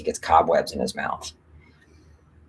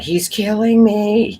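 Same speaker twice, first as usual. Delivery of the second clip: mock pained voice; 4 dB louder, slower than usual. Reading a chat comment.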